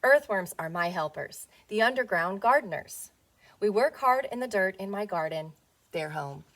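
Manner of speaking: gentle storybook read-aloud; reading to children. Acted. Teacher reading a worm picture book to her class, storybook voice. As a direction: read it as if to little ones on the rug.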